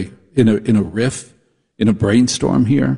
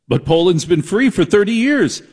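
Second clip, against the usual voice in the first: mock incredulity; 7 semitones higher than usual. Acted astonished reply in parody.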